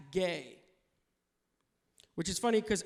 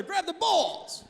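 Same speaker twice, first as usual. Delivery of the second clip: drawn-out laughing call; slow, high, louder call; 8 semitones higher, 4 dB louder, slower than usual. Retold or imitated. Italian guy grabbing his friend, slow high call. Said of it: "Grabbing each other".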